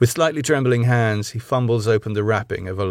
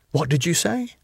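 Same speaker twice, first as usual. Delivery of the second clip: sharp challenge; 7 semitones higher than usual. A narrator's reading. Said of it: "cutting him off".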